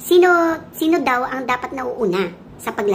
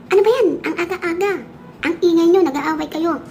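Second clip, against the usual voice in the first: angry scolding; 5 semitones higher than usual. Acted. Utak, just woken, yelling at the quarreling feet: angry shout. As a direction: snap at them like you were rudely woken. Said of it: "galit na galit siya".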